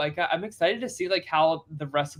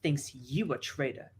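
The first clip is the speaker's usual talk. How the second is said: quoting a housewife; 2 semitones lower, 4 dB quieter than usual. Retold or imitated. Quoting show, softer other voice.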